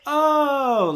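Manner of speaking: a high, loud, sneering oh; condescending oh. Acted. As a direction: scoff at the newcomers. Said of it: "he talks in a really condescending voice".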